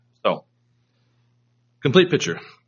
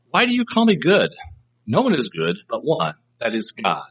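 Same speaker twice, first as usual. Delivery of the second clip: rebuke. Shown as a demonstration. Jesus answering the rich young ruler, as a rebuke. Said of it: "a rebuke".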